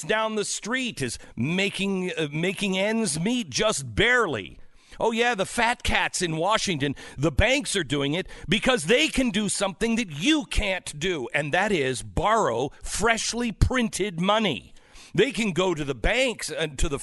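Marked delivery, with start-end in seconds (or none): none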